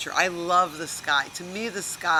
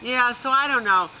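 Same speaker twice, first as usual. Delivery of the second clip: bored chatter, higher, about a ring; a hint of a gossipy friend ignoring the sky; lightly voiced gossiping friend; 5 semitones higher than usual. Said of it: "my Jewish girlfriend will look up and go like this".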